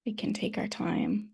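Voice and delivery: unhurried meditation guidance with long pauses; calm, spacious meditation teacher's delivery; guided meditation. Real, not acted. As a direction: gently guide them to settle, leaving space between phrases.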